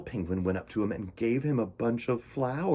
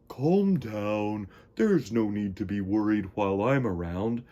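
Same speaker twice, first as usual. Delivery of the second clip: soothing. Acted. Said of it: "said Walter's soothing voice".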